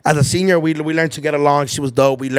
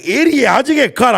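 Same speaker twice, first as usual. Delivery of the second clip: mock scolding; 8 semitones higher, 5 dB louder than usual. Sister scolds as they walk out.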